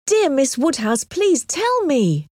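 high, drawn-out begging; anxious pleading. A narrator's reading. Harriet begs her friend for the answer, pleading anxiously. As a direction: implore her, stretching the plea at high pitch. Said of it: "cried Harriet anxiously".

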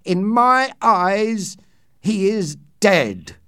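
loud and high, voice shaking; slow, loud and trembling with fear. A narrator's reading. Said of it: "in a loud, trembling voice".

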